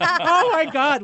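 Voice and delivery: excited. Retold or imitated. Reacting to sandwich retold.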